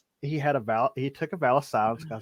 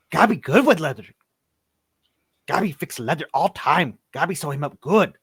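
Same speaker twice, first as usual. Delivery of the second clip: higher and louder goblin insisting; eager goblin; 4 semitones higher, 4 dB louder than usual. Acted. Goblin offering to sew up the body, eager and loud. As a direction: push it like a goblin proud of his leatherwork. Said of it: "the little goblin says".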